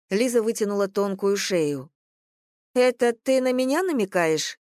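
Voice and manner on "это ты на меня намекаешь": higher indignant challenge; offended. A narrator's reading. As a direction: bristle at the insult. Liza takes offence at Vlad.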